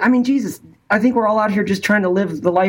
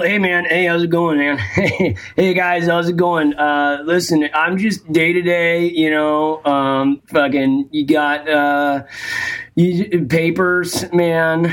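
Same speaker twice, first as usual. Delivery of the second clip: Bay Area burnout; slower than usual. Retold or imitated. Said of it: "It's a Bay Area burnout".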